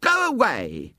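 high, piercing hysterical scream of a woman; hysterical cry. A narrator's reading. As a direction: shriek it out in fright at a horrid child. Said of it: "gave an hysterical scream".

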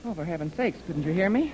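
panting after running; breathless from hurrying; out of breath. Acted. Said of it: "He's all out of breath".

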